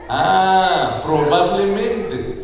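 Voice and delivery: slow, doubting repeat of the word; skeptical drawl. Retold or imitated. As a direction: stretch it out in disbelief. Padre incrédulo, lento. ("probablemente" alargado con incredulidad)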